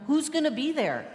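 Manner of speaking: playful mock eagerness; fun, exaggerated. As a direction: ask like an exaggerated fun-lover. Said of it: "they speak fun, exaggerated".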